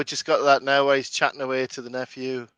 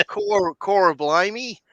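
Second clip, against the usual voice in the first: slow, higher fake Hollywood Cockney; mock Cockney; 5 semitones higher, much slower than usual. Spoofing Dick Van Dyke's Cockney, slow and hammed-up. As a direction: draw out Cor Blimey like a stage Cockney. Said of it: "Hollywood Cockney accent".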